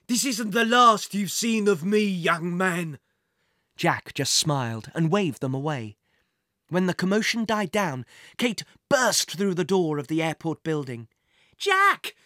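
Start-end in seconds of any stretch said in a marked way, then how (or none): 0.1-3.0 slow, furious villain threat; angry threat. A narrator's reading. Villain being arrested threatens. 11.6-12.1 high, loud joyful call; excited cry. A narrator's reading. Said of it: "she cried".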